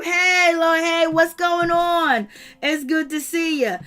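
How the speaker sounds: hammed-up phony hello, sweet on the surface; fake friendly greeting. Vlogger mocking Kandi greeting Kenya, phony and sweet.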